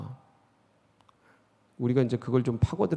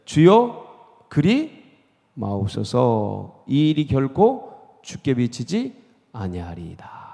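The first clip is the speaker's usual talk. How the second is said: pleading protest; 4 dB louder, slower than usual. Retold or imitated. Peter pleading with Jesus, slow and earnest. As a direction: beg the Lord to stop, stretching each word. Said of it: "항변하여 이르되".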